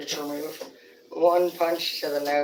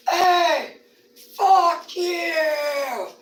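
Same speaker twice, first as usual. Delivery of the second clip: much higher, louder shout; angry yell; 11 semitones higher, 5 dB louder, much slower than usual. Retold or imitated. Zeke shouts back at a stranger, angry yell.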